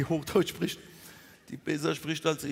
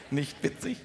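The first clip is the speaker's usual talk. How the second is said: wife's Standard German; 3 semitones lower, 3 dB quieter than usual. Acted. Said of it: "Meine Frau spricht Hochdeutsch".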